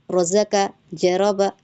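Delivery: even, short syllables in "रज़का", "जरबा", none drawn out; short unstretched vowels. Shown as a demonstration. Teacher giving examples of harakat, short unstretched vowels. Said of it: "इसको हमने खींचना नहीं होता".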